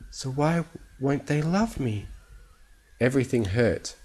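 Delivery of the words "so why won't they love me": high, broken little question; small, high, heartbroken voice; sobbing. A narrator's reading. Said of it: "bowed her head to sob brokenly".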